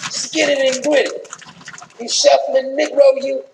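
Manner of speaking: a hint of an annoyed wife telling him off; a touch of a wife scolding her husband on camera; scolding Michelle. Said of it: "giving him one of those damn looks like".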